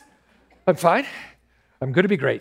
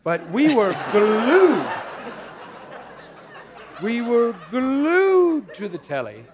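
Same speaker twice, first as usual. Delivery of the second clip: voice cracking; 3 semitones higher, slower than usual. Acted. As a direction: voice breaking up high with emotion. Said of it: "my voice is cracking".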